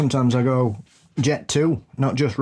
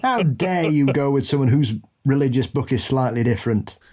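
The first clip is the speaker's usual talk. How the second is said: mock outrage laughing.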